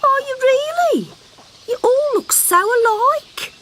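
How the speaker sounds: a mum who forgets names; vague mother frog. Acted.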